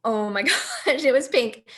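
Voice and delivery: can't believe the test; excited shock. Retold or imitated. Positive pregnancy test.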